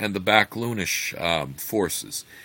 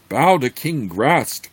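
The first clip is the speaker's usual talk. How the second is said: commanding; 6 semitones higher, 5 dB louder, slower than usual. Acted. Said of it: "commanded Zuggtmoy".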